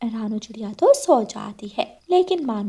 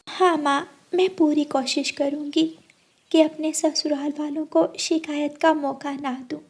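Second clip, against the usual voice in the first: put-on higher girlish voice, earnest promise; young daughter; 5 semitones higher than usual. Daughter promising mother she will behave well. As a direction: answer like a dutiful young bride.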